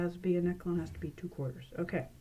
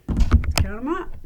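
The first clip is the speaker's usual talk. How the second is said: "count 'em up" said louder and slow; louder showman call; 4 semitones higher, 11 dB louder, slower than usual. Shown as a demonstration. Magician urging the audience to count, loud and slow. Revealing the pennies.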